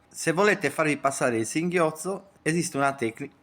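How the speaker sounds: hiccuping mid-sentence; hiccups. Real, not acted. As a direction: cut off by a hiccup.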